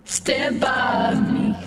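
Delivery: singing through a voice changer. Real, not acted. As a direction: karaoke with a voice filter. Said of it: "not the voice changer on this".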